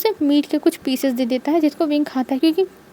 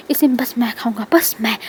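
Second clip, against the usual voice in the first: possessive whisper; 3 semitones lower than usual. Acted. Wing guarding his soup.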